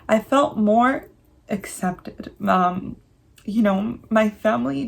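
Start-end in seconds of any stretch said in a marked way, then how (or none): 0.1-2.3 choked up. Real, not acted. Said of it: "I'm gonna get a little choked up".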